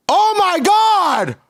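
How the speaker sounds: very high, drawn-out squeal; real falsetto shriek of disbelief; shrieking shock. Real, not acted. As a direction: squeal it like you can't believe it. Reacts to STD reveal.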